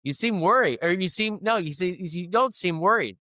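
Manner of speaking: a hint of a curious onlooker; puzzled staff voice. Coffee staff sizing up the groom, lightly puzzled. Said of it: "And they said".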